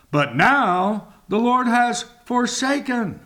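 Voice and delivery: doubting complaint to the Lord; language of doubt. Retold or imitated. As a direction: voice a doubting man asking why. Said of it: "the language of doubt".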